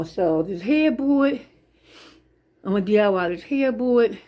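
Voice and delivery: winded, heavy breathing. Real, not acted. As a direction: talk while catching your breath. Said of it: "I'm out of breath from walking around and talking".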